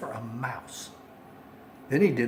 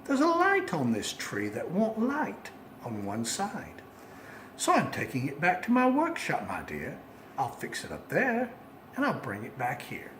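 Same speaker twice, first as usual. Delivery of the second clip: lying sweetly; 4 dB quieter than usual. Acted. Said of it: "the fake Santa Claus lied".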